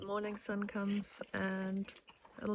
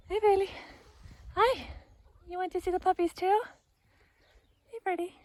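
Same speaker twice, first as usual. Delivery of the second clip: sweet pet voice; 10 semitones higher, 5 dB louder, faster than usual. Real, not acted. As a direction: call the cat in a high sing-song. Greeting the cat sweetly.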